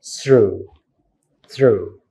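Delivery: "through" ending on open oo; th-r-oo for "through", pause between; silent g and h. Shown as a demonstration. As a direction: model "through" twice, no final consonant. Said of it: "because it is pronounced".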